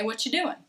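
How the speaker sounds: "doing" clipped to "doin'"; casual "What you doing" without the G; dropped G. Shown as a demonstration. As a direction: blend "What you" and end "doing" on a plain N. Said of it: "We're gonna say".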